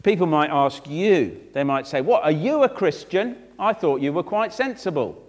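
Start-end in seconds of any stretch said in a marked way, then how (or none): 2.0-5.2 higher-pitched acted disbelief; mock-astonished questioning; incredulous acquaintance. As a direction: sound taken aback. Imagined acquaintance doubts the believer.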